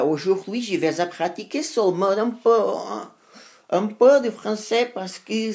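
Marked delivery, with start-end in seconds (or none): none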